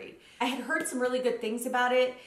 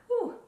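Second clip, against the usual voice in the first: emotional exhale; 13 semitones higher than usual. Real, not acted. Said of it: "I'm getting a little emotional here".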